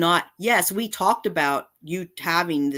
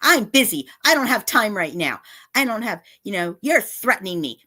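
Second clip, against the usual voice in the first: mocking imitation; 3 semitones higher, 3 dB louder than usual. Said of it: "those long, na-, nasty texts".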